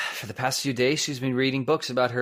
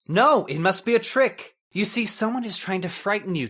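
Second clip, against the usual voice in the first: agitated denial; 5 semitones higher than usual. Acted. Husband denies the ghost sighting.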